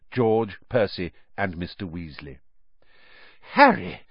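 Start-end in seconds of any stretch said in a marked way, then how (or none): 3.5-4.0 out of breath calling a name; panting. Acted. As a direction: gasp the name out, winded. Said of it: "Mister Weasley panted".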